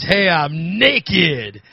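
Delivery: lightly put-on seductive call, drawn out slow; a hint of mock come-hither, stretch it out; mildly sexy retold yell. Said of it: "in a real sexy voice".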